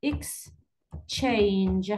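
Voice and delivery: Exchange with the second syllable stressed; Exchange, drawn out on the final syllable; stress on CHANGE. Shown as a demonstration. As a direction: slowly split Exchange and lean on CHANGE. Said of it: "stress في second syllable".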